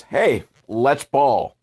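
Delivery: slow, deadpan come-on; mock seductive invite; blunt mock proposition. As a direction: drag it out like a lazy pickup line. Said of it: "she didn't say it like that".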